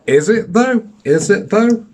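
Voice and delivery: sarcastic. Real, not acted. Sarcastic rhetorical question.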